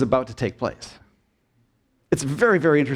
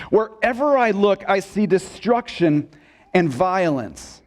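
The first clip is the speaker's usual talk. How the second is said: mildly dramatized lament, starting high; Habakkuk's complaint; 4 semitones higher than usual. Acted. Preacher reads what the prophet sees around him, mild lament. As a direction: start high and sink onto the final word. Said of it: "and he talks like this".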